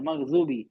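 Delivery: "مغضوبی" with z for the ض; South Asian z reading. Shown as a demonstration. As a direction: say "مغضوبی" as maghzoobi. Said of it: "لوگ زو پڑھتے ہیں".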